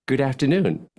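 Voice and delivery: smiling good afternoon; happy tone. Shown as a demonstration. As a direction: say it with a smile in the voice. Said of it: "Make a happy face and say".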